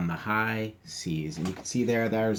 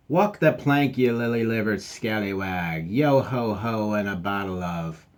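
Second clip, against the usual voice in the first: a cheerful little pirate calling out; pirate dog voice. Acted.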